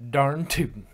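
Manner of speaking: exclaiming. Acted. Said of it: "Ramodash exclaimed".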